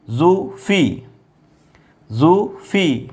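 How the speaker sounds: stretched syllables, very slow; slow syllable demo. Shown as a demonstration. Teacher blending mixed syllables, very slow. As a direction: say it slowly for the class. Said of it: "फे ज़ेर फी".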